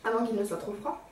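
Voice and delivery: talking between sips of coffee; while sipping a drink. Real, not acted. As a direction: say it around a sip of drink. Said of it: "je bois un petit coup de mon café au lait".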